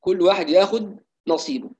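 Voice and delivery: كل واحد ياخد نصيبه in colloquial Egyptian Arabic; Egyptian dialect. Real, not acted. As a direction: slip into Egyptian for the saying. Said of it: "باللهجة المصرية". (باللهجة المصرية)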